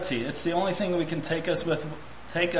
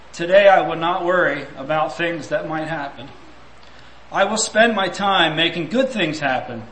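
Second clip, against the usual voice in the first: louder, earnest reading of a resolution; a preacher reading a written resolution to the congregation; formal reading; 3 dB louder than usual. Acted. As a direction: read it like a solemn pledge. Reads resolution aloud.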